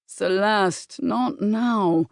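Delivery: a firm, dismissive male voice; Bram's firm refusal. Acted. Bram refusing Celeste behind the library door, firm. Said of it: "that familiar male voice".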